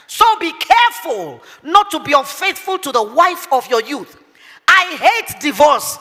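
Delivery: slow, weighty scripture reading; slow emphatic preaching. Acted. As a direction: lean on each word, slowly.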